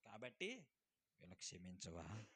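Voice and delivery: a low, soft plea to the Father; pleading prayer. Acted. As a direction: beg forgiveness for them quietly. Jesus praying to Father on cross. (తండ్రిని మెల్లగా వేడుకునే స్వరం)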